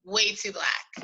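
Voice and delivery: whispered aside. Real, not acted. Friend agreeing in a conspiratorial whisper. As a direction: drop to a breathy whisper for the punchline. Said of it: "dry agreement whispered".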